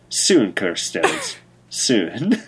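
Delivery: slow, low ominous promise; sinister whisper. Acted. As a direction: savor it like a villain. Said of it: "as if to say".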